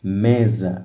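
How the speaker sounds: "mesa" repeated with weight on ME; falling ME-sa, first syllable leading; stress on first syllable. Shown as a demonstration. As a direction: show the stronger ME in "mesa". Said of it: "a sílaba me é a tônica".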